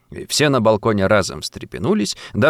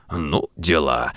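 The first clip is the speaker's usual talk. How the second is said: low, slow sighing words; low weary sigh; 8 semitones lower, 4 dB quieter, slower than usual. A narrator's reading. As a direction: sigh it out, head shaking. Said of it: "вздохнул".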